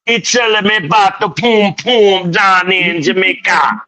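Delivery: high, loud excited telling; excited retelling. Retold or imitated. Retelling the Uber driver's story with loud excitement. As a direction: gush about the driver's story.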